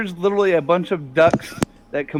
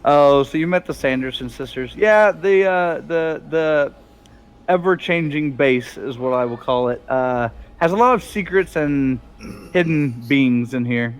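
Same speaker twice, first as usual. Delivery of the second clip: refined Bob; 2 semitones lower than usual. Acted. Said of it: "this Bob sounds really, really different".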